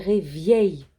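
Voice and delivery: "réveil" misread as ré-vièy, with a y-glide after v; slow "réveil" with i sounded before è; i placé avant. Shown as a demonstration. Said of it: "Le i est avant, ça va faire". (« réveil » prononcé « réviel », i avant le è)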